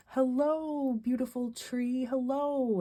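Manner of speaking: high, bright call to a tree; greeting a beautiful tree like a little kid; excited shouting. Retold or imitated. Mom greeting a spring tree in the Common, high excited call. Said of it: "I was shouting out".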